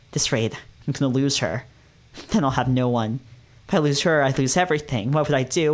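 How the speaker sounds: anxious inner monologue, mildly played; first-person reading, a touch of panic; story narration. A narrator's reading. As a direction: narrate a mind working itself into worry. Narrates hero's mounting panic.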